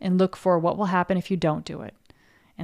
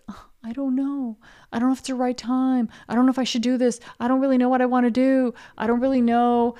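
higher, dithering I-don't-know voice; mock confused voice; 5 semitones higher, faster than usual. Coach to listener, mimicking someone confused and stalling. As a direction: play the lost, undecided person.

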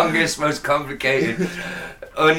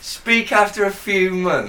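higher, slow disbelieving echo; incredulous; 5 semitones higher than usual. Real, not acted. Co-host doubts a baby could talk so early, incredulous. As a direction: repeat it back in disbelief.

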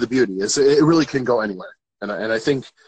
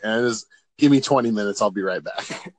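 imitating someone barely awake, trailing off lower; half-asleep host; 4 semitones lower than usual. Interviewer imitates host who just woke up, lightly groggy. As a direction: play it groggy, voice sinking away. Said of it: "your eyes are half closed".

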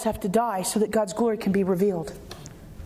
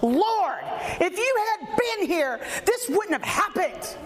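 bold, higher, pointed reproach; with chutzpah; 6 semitones higher, slower than usual. Shown as a demonstration. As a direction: confront him, Jewish chutzpah. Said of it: "She had chutzpah".

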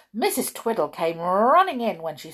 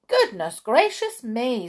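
high, loud mock shock; shocked gossip; 5 semitones higher, 5 dB louder than usual. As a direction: clutch your pearls. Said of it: "who always loved to chat".

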